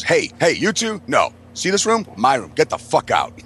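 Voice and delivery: mildly hammed-up kick-out; retold angry yell. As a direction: imitate a drunk ordering people out, without really yelling. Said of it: "fucking yell at those chicks".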